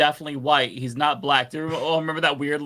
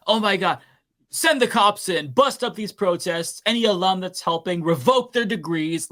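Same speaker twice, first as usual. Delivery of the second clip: mock the angry alumni calling for cops; outraged alum voice; 5 semitones higher than usual. Voicing outraged alumni online.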